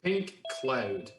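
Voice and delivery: Pink Cloud in a Brooklyn accent. Real, not acted. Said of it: "That's my Brooklyn accent kicking in".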